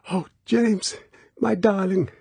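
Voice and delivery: high, tender cry of relief; cling to him with joy. Acted. Girl clinging to Bond, high tender relieved cry. Girl embracing, about to sob.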